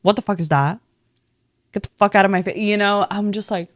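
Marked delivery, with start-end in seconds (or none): 0.0-2.6 louder mock snapping at someone; retold angry Carmy. Carmy yelling at Marcus in the kitchen, mock angry. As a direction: play the boss telling him off. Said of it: "he's like".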